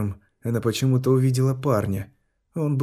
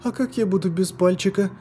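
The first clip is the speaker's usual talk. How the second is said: put-on high child voice, anxious and fast; a small girl worrying about her finger; испуганный детский голос; frightened little girl; 9 semitones higher than usual. A narrator's reading. Child Loska voiced throughout.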